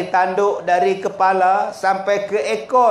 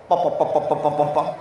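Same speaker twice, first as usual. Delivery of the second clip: exhaust popping; 6 semitones lower, 3 dB quieter, much faster than usual. Retold or imitated. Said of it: "exhaust buluh".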